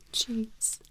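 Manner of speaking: breathy chuckle into the word; amused disbelief. Acted. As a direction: laugh at the absurdity of it. Laughs at patient's fear.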